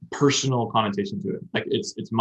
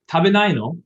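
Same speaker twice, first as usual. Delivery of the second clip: higher, louder cutesy question; feminine childish question; 7 semitones higher, 6 dB louder than usual. Shown as a demonstration. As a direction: ask it like a sweet girlish plea. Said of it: "feminine, childish way to say".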